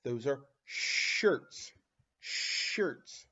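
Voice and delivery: shirts said slowly, sh drawn out; slow, clear naming. Shown as a demonstration. Teacher naming the picture slowly for children. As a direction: stretch the sh in shirts. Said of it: "begins with the S H sound".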